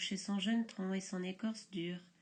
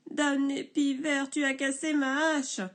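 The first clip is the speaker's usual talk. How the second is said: 1 sanglot; 4 semitones higher, 5 dB louder than usual. Acted. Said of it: "le bûcheron sanglote".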